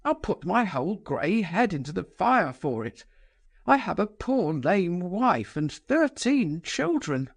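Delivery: lamenting. Acted. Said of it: "lamented Lebedev".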